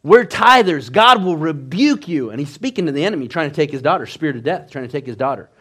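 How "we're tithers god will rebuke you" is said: raised, drawn-out rebuke; mildly acted yell of defiance; retold defiant yell. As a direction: imitate a father yelling at the enemy. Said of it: "he just yells".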